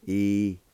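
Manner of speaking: brisk model of E-U-Cli-lo-da; clipped pronunciation. Shown as a demonstration. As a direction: snap out E-U-Cli-lo-da quickly. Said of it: "It's pronounced like this".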